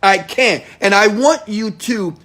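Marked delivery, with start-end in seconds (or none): 0.0-0.6 loud, higher insistent refusal; imitating a listener who refuses to forgive, loud and pained; mock anguished protest. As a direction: cry out the refusal like someone still hurt. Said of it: "Some of you gonna say".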